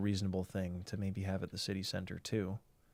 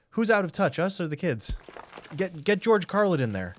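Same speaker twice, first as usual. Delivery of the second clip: panicky exec; 8 semitones higher, 5 dB louder than usual. Retold or imitated. Mock TV executives panicking.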